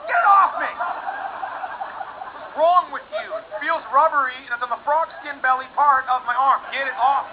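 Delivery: high, loud, panicked yelling; hammed-up revulsion, desperate to get free; freaking out. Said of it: "'cause I'm freaking out".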